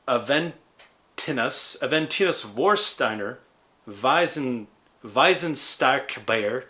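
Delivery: lightly put-on German accent; mock German accent. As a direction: say the beer names with an amateur German accent. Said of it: "is my German accent".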